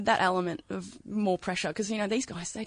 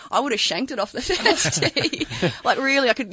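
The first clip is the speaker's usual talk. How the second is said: laughing; 5 semitones higher than usual. Real, not acted. Laughing while imagining the pressure.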